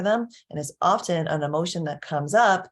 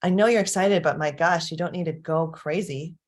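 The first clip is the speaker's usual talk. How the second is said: dismissive scolding. Shown as a demonstration. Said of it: "It's a really different than saying".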